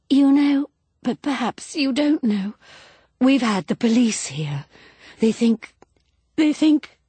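high, halting, distressed speech; mounting agitation. A narrator's reading. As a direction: break off as distress climbs. Distraught wife breaks off about police.

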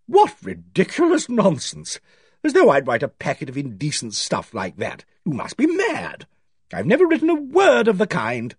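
high, booming indignant denial; booming scorn. A narrator's reading. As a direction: boom it out, outraged and derisive. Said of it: "She boomed out".

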